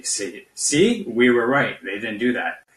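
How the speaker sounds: mock gloating Russia. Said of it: "expose it to be".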